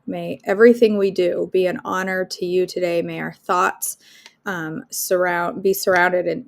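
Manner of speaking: earnest prayer voice, steady and reverent; leading the group in closing prayer; morning prayer. Acted. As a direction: pray over the group sincerely.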